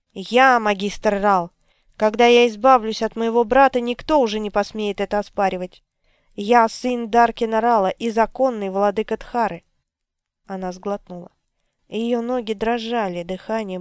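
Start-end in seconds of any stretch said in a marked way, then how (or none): 0.1-9.6 raging villain. Acted. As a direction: declare it like a mad tyrant. Drefan proclaims himself. (безумный тиран, громко)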